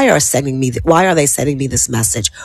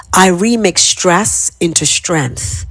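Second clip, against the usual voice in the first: slow affirmation; slower than usual. Shown as a demonstration. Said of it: "So repeat after me".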